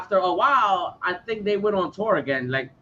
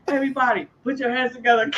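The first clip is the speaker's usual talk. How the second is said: high stage call to a crowd; lightly mocking showman's crowd call; 5 semitones higher than usual. Singer rousing a tiny audience, lightly imitated hype. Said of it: "and the singer is like".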